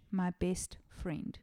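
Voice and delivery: slow and soft, barely managing; a wounded girl's last strength; faint. Retold or imitated. Victim answering the cyclist, faint and slow. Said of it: "Peyton could only manage".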